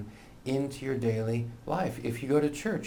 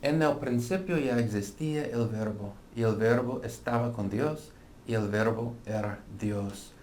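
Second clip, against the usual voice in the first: Spanish pronunciation. Shown as a demonstration. Reads the verse in Spanish.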